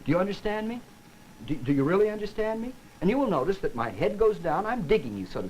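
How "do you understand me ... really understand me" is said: higher, insistent checking question; making sure you're listening. Shown as a demonstration. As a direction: press the listener for understanding. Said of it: "If I want to be sure you're listening".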